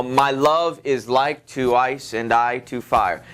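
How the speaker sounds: slow, with the beat on "love", "like", "ice", "I", "fire"; exaggerated iambic stress. Shown as a demonstration. Teacher showing students the example, slow exaggerated iambic stress. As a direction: read "My love is like to ice" in measured, alternating weak-strong beats. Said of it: "you don't read like this".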